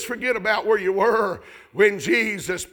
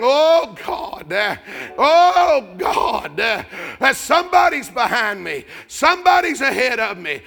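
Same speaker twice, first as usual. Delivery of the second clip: louder, higher pleading prayer; fervent praying cry; desperate prayer; 4 semitones higher, 4 dB louder than usual. Acted. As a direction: plead with God as if at the altar. Voicing a praying worshipper.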